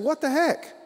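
high, loud, delighted holler of surprise; astonished shout. Retold or imitated. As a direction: call out in happy disbelief, voice jumping up. Acts out his astonished greeting shout.

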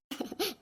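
short, quiet amused laugh; little laugh under the words; soft chuckle. Acted. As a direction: chuckle fondly over the baby. Grandmother amused by baby.

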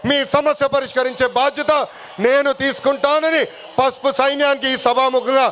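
projected oratory with long pauses; political rally speech. Real, not acted. Party leader addressing the workers at a public meeting, rally oratory. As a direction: address a big crowd, phrase by phrase.

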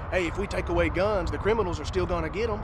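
light Appalachian twang; hillbilly voice. Retold or imitated. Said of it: "He's saying it in a hillbilly voice".

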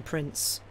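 "Prince" weighted with dry irony; ironic stress. A narrator's reading. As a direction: lean on "Prince" mockingly, not as an honour. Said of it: "ironically stressing the title".

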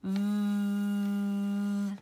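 long buzzing vvv; sustained V sound. Shown as a demonstration. Teacher modelling a long buzzing vvv. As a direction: hold a voiced V buzz. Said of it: "make the V sound with me".

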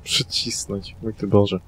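low, whispered in mock horror; prim whispered disapproval of the word Przycisnąć; mock scandalised whisper. Mock shock at wording.

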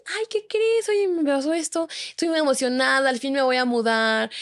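high, bubbly imitation of own excitement; retold excitement. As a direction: share big news, half-mocking yourself. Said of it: "yo estaba emocionada".

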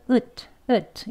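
으트 said with a full, clear 으 vowel; teacher showing the wrong way, 으트 with a strong 으. Shown as a demonstration. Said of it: "이렇게 발음하시면 안 된다는 거예요".

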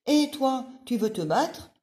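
loud, high, cocky challenge; ladybug voice. Acted. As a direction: pick a fight, chest out.

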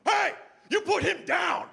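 high shouted command; Dennis Rodman. Retold or imitated. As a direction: yell it like a celebrity hero stepping in. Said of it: "Rodman ... says this".

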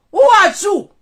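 high, loud demand; loud challenge. Real, not acted. Challenging a rival's identity, loud and high.

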